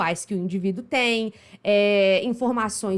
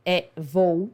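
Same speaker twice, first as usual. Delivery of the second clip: slow decoding; 3 semitones lower, much slower than usual. Shown as a demonstration. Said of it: "como falante do português brasileiro".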